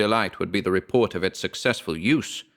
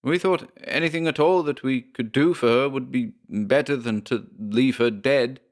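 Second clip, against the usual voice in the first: defensive Briggs; 6 semitones higher than usual. Acted. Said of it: "Briggs tried to divert his anger".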